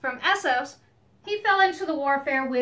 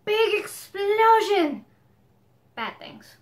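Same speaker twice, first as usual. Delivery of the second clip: mock Asian accent; 6 semitones higher, 3 dB louder, slower than usual. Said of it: "That sounded like a terrible Asian accent".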